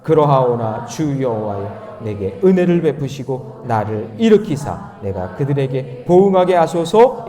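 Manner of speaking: slow, loud congregational Bible reading; slow, measured verse recitation; scripture read aloud. Acted. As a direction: lead the congregation through the verse, drawing it out.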